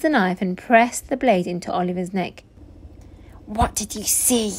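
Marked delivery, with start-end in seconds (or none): 3.5-4.5 soft, menacing hiss. A narrator's reading. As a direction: hiss it like a threat at knifepoint. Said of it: "he hissed".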